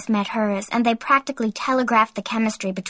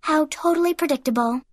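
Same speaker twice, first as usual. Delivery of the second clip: higher-pitched sarcastic jab; sarcastic sneer; 6 semitones higher than usual. A narrator's reading. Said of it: "with her patented sarcastic sneer".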